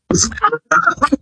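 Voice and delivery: high, broken cry of pain. Acted. Man stabbed in the leg to the bone, crying out. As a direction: cry out high in short bursts.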